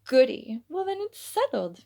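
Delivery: Vanity squealing in triumph at her husband; victorious squeal. Acted. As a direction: squeal it like you just won. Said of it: "victorious squeal".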